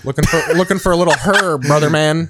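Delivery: stiff dopey cop; dumb cop voice. Retold or imitated. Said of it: "so you have Dumb Cop".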